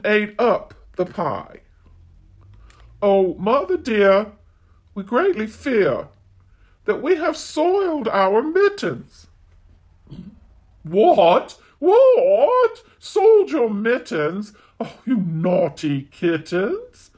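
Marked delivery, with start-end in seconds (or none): 3.0-9.3 a lightly voiced kitten begging mother. Kittens confess soiled mittens. 10.8-17.1 scolding mother cat. Acted.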